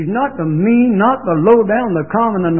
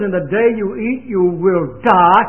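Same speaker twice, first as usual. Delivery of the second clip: God's stern warning. Retold or imitated. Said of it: "God says".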